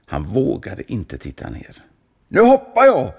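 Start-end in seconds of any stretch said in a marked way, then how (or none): 2.3-3.1 high, loud excited call; can't wait to jump; eager announcement. A narrator's reading. Kulan telling the monk he is about to jump, eager. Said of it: "sa kulan".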